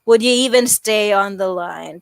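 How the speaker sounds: droning, uninterested monotone; boring, lifeless phone voice; monotonous. Shown as a demonstration. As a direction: keep every word on one dull level. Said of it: "sounded like this".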